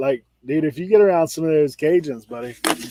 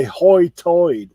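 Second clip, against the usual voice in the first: Outer Banks brogue; 2 semitones higher, 4 dB louder than usual. Shown as a demonstration. Explaining the local dialect to a friend, Outer Banks hoi toid. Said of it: "but they say".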